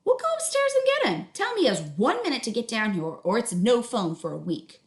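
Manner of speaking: a busy mom calling up; mom's voice. Acted.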